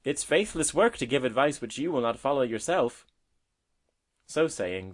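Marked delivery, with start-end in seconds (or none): 0.0-3.0 higher, louder earnest advice. A narrator's reading. Robin advising the woodlark, earnest and emphatic. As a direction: press the point earnestly. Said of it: "cried the robin earnestly".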